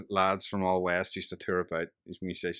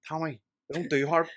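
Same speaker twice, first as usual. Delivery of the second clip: lightly voiced woman calling out higher; overheard bar woman; 8 semitones higher than usual. Belfast woman calling to Tommy at the bar, imitated call. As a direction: call across the bar in a put-on voice.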